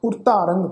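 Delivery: ਉਰਤਾਰੰਗ ending in a nasal "-ang". Shown as a demonstration. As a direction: end ਉਰਤਾਰੰਗ through the nose. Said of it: "ਨਾਸਿਕ ਉਚਾਰਨ ਹੋਏਗਾ".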